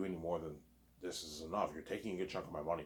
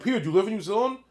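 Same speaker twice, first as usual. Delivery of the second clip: high, loud mock question; pitched up and pushed out to tease Peter; quizzing the director, voice jumped high; asking Peter; 13 dB louder, faster than usual. Acting out negotiation with Peter.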